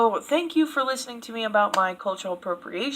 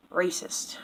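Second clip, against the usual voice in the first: whisper; 6 dB quieter than usual. Real, not acted. Drops voice on the word.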